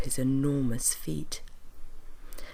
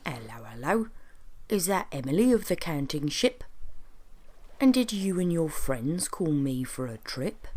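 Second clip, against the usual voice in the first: jolly magical train conductor. Acted. Train conductor greets friends who called for a trip, jolly and singsong. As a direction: hail passengers in a playful character voice.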